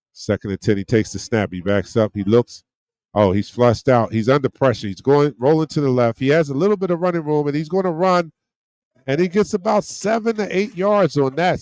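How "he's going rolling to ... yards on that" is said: real live excitement building through the play; excited play call. Real, not acted. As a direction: voice climbing fast and higher as the run opens up.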